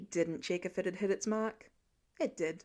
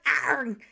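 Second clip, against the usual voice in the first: mock effort grunt; 7 dB louder than usual. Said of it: "went like".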